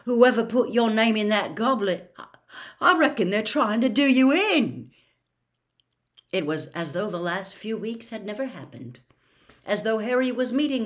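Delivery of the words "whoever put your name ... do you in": earnest, raised voice, building in force; serious warning, getting louder. A narrator's reading. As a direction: insist on it gravely. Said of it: "he said very seriously".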